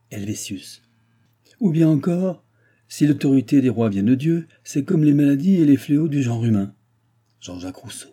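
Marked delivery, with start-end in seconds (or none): 1.6-6.7 loud, higher mock declamation; ranting old baron. Baron reciting a philosopher's maxim in disgust, ranting declamation. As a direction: declaim the hated maxim at full voice.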